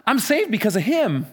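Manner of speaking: defiant, halting on a stammered "I". Acted. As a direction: dare them, then insist on it. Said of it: "It's almost like he's going".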